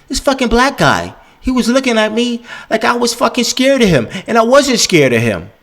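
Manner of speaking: high parody of a nervous white guy; mock white gossip. Imitating white people gossiping.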